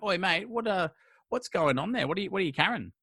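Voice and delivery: matey, curious shout-out, lightly acted; nosy hailing. Retold hailing of a passing man.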